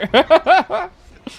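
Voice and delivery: high loud burst of laughter. Real, not acted. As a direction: laugh out hard. Laughing at failed jump.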